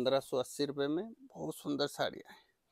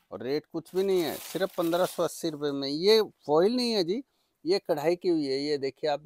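overeager teleshopping pitch; 5 dB louder than usual. Real, not acted. Saree seller pushing the price.

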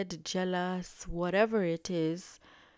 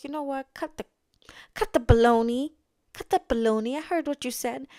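mock-indignant outburst, higher and louder; indignant confrontation; 6 semitones higher, 9 dB louder, faster than usual. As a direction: call out the pretence, loud and high. Acted confrontation over overheard insult.

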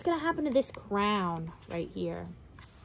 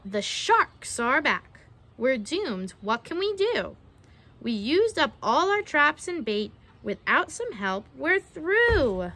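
storybook dismay, played up; dramatic reading to children; 4 dB louder, slower than usual. Narrator telling children the trappers are doomed, dramatic storytelling. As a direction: tell the doomed moment with drama. Reads picture book aloud.

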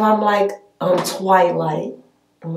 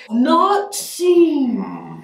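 laughing; 7 semitones higher than usual. Real, not acted. Breaks up laughing in role.

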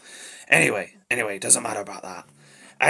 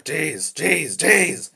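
alarmed; 5 semitones higher, 5 dB louder, much slower than usual. Acted. Reacting to a knife pulled.

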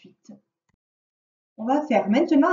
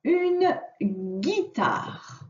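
slow dictation; 4 semitones higher, much slower than usual. Shown as a demonstration. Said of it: "On passe à la ligne".

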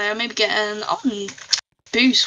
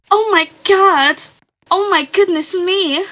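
surprised gasp; 7 semitones higher, slower than usual. Real, not acted. Sees something surprising in the game.

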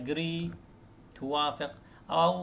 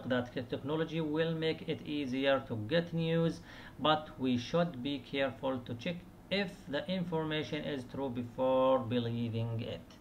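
slow, careful model sentence; model answer read slowly; much slower than usual. Shown as a demonstration. Teacher reading a sample opinion to students, slowly. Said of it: "لاحظوا استخدم".

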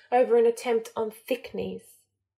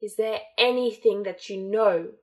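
louder, contemptuous snarl; 4 dB louder than usual. Acted. Voldemort snarling at Malfoy over his failure, louder and scornful. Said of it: "Voldemort snarled".

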